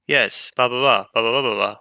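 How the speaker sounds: flat, bored monotone drone; mock the bored manager's monotone. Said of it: "the monotone, uh, voice".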